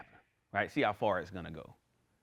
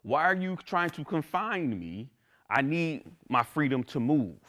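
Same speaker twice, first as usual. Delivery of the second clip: mock upset; 4 semitones higher, slower than usual. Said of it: "about to go through the roof".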